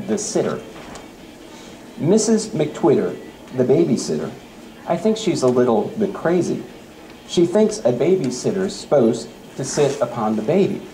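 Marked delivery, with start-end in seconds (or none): 2.0-10.8 playful read-aloud of a light poem. Acted. Teacher reading a poem to the audience, playful read-aloud. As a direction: read it like a funny poem for kids.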